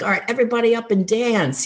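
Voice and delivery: high, fast, peppy rally; excited call-out. Retold or imitated. Teacher calling her class up to dance, high and fast. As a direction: get the whole room up on their feet.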